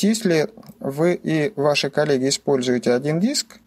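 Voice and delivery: ordinary delivery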